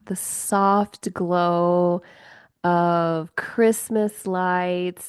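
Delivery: slow, lingering descriptive delivery; atmospheric scene setting. Acted. Host painting a winter night for listeners, slow and evocative. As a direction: draw out each image with pauses.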